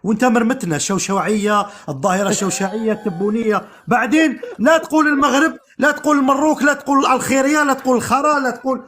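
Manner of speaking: imitated list of restrictions. Guest parroting the host's restrictions back at him, exasperated mimicry. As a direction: reel off someone's rules, item by item. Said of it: "قيتنا بقيود".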